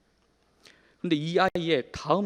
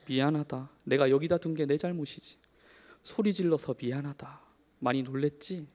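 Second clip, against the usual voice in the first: soothing apology; 2 semitones lower than usual. Retold or imitated. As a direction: comfort him gently while holding him. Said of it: "라고 다독여 주었습니다".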